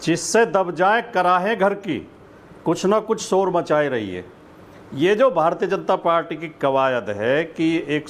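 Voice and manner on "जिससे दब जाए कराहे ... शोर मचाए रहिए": measured couplet recital with long pauses; शेर पढ़ने का अंदाज़, ठहर-ठहर कर; reciting a sher. Shown as a demonstration. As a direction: recite the Urdu couplet, lingering on each line. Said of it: "एक शेर से शुरुआत करता हूँ".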